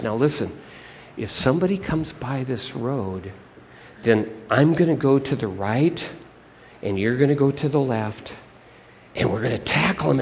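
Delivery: low, hushed plotting; villain giving low, secretive orders; scheming bad guy. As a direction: lay out the plan quietly to your partner.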